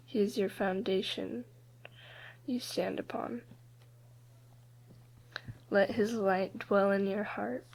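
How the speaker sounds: measured poem recital with long pauses; poem reading. Real, not acted. Student reads their own poem to the group, measured poem reading. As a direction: read it line by line, letting each one settle.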